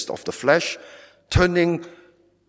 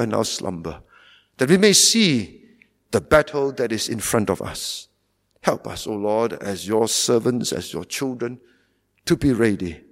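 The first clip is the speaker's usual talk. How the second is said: pastoral prayer. Acted. Preacher closing the sermon in solemn prayer. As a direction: pray over the congregation earnestly.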